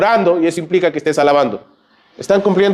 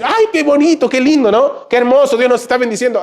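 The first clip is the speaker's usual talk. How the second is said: much higher, gushing with joy; mock delight; 9 semitones higher than usual. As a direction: coo over the happy news. Reacción alegre ideal del esposo. (alegría exagerada y aguda)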